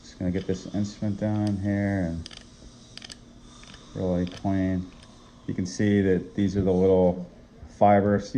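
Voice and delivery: talking over suction noise; with dentist suction tube. Real, not acted. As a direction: suction hissing in background. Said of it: "I'm gonna turn the suction on".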